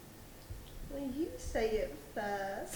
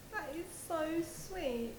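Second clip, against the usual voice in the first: gushing phone call; 3 semitones higher than usual. Acted.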